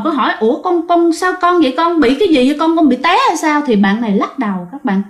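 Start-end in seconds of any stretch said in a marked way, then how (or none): 0.4-3.6 high, startled questions to her daughter; a mother caught off guard by what she sees; high, rushed alarm. Retold or imitated. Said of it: "Thì cô hết hồn".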